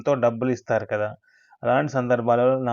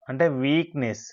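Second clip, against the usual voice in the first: whisper. Shown as a demonstration. Teaching the word weakness.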